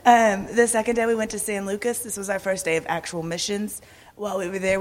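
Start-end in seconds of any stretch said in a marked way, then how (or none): 0.1-2.0 laughing. Real, not acted. Laughing after joke about cat.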